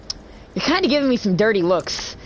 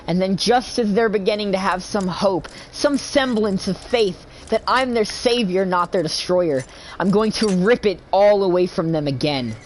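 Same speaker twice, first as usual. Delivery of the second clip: villain monologue. Acted.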